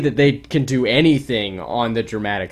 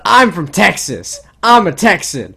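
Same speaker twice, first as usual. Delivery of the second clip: imitating Mark Wahlberg; 7 semitones higher, 8 dB louder than usual. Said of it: "he doesn't sound anything like a Texan".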